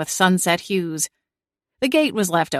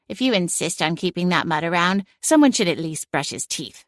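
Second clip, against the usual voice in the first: grumbling; 3 dB quieter than usual. Acted. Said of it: "she grumbled".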